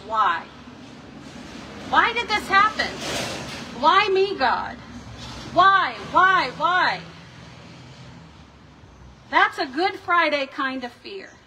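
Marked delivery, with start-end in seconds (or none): 0.1-7.0 anguished why. Acted. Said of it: "This fear keeps us asking the question".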